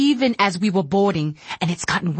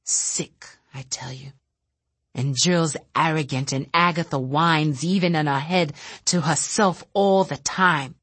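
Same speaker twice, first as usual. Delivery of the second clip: bitter rant. Acted. Bitter telepath lashing out quietly.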